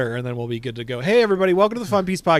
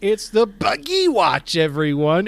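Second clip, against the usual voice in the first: silly clown; 5 semitones higher, 6 dB louder than usual. Pretend. Buggy Watch announcement.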